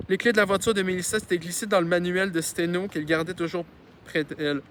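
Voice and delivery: reading a novel aloud; story narration. A narrator's reading. Reader telling a childhood story to listeners, narrating. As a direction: narrate it clearly, with lively phrasing.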